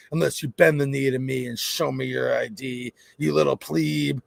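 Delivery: mock-menacing petty tyrant; power-tripping clerk. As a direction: look down on a lowly subject, hammed up. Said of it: "I'm the clerk behind the counter".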